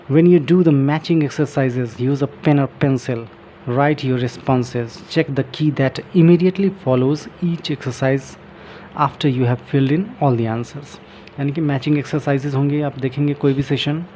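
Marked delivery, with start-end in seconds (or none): 0.1-11.0 slow, careful reading from the book; reading aloud. Shown as a demonstration. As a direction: read each phrase out slowly for learners. Reading book text aloud slowly. (किताब से धीरे-धीरे पढ़ना)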